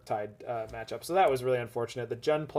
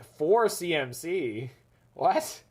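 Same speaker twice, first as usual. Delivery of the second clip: put-on slow, baffled old-timer scoff; boomer disbelief; 4 semitones higher, much slower than usual. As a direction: scoff like a grumpy old player. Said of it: "that Boomer Jund energy of just being like".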